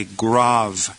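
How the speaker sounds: "grave" said grahv, with an open ah; corrected pronunciation. Shown as a demonstration. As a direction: slowly rhyme "grave" with suave. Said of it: "It's grave".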